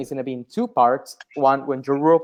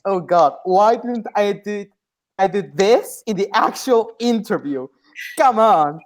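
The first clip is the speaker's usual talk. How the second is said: higher, mock-exasperated lament; replayed frustration, pitched up; exasperated self-reproach; 4 semitones higher than usual. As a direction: groan at your own missed chance. Replays own regret after interview.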